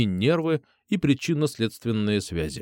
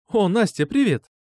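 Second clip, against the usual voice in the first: mum's raised, louder greeting; glad exclamation; 10 semitones higher, 4 dB louder than usual. Acted. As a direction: warmly cry out a welcome. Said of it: "воскликнула мама". (мама радостно восклицает, встречая Настю)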